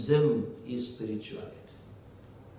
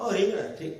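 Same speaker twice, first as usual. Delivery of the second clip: mild, offhand acceptance; indifferent husband; 5 semitones higher, faster than usual. Acted. Husband hears wife cooked brinjal, mildly resigned. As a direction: take the news with a small "oh", then let it go.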